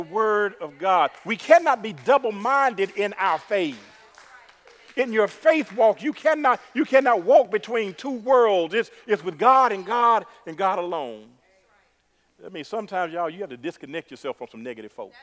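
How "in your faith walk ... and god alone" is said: slow, raised-pitch preaching; emphatic preaching. Real, not acted. Preacher urging the church on its faith walk, emphatic. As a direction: drive it home slowly to the congregation.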